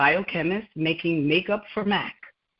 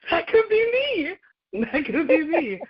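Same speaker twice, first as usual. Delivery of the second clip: high, slow, wistful longing; dreamy awe; 12 semitones higher, slower than usual. Retold or imitated. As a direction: sigh it out like a dream come true. Dreamy retold wish seeing lab students.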